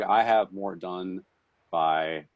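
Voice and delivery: lightly mocked army ad voice; army commercial. Friend boasting about early rising, mock army commercial. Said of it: "he sounded like an army commercial".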